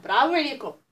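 ordinary talk, nothing marked

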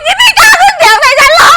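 indignant shriek. Acted. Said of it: "อย่ากรี๊ดเลยค่ะ".

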